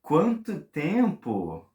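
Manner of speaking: slow, drawn-out quanto tempo in mock wonder; amazed. Shown as a demonstration. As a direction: stretch it out like it's been ages. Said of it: "Another expression you can say".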